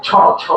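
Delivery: "ছ" as an aspirated chh; "ছ" with chh in place of s; contrasting sound demo. Shown as a demonstration. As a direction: say "ছ, ছ" as separate chh syllables. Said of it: "যদি স উচ্চারণ করি".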